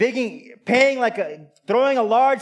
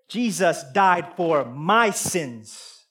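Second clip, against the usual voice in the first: slow firm answer; 4 semitones lower, much slower than usual. Acted. Answering the accuser, slowly.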